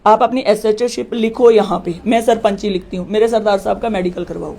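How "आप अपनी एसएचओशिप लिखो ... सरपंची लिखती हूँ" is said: retold anger. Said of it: "फिर मुझे गुस्सा आया".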